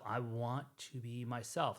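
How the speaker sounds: "I want to be myself" drawn out slowly; slow, deliberate restatement. Real, not acted. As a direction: spell out "I want to be myself", unhurried. Restates his wish more deliberately.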